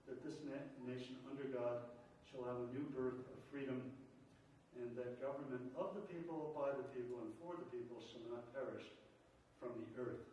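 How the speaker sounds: a teacher reading the Gettysburg Address to the class, solemn and measured; formal speech. Acted. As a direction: deliver it as a solemn address to a crowd.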